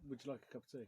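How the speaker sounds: light Midlands accent; a tentative go at a Midlands accent. Shown as a demonstration. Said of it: "say that in a Midlands accent".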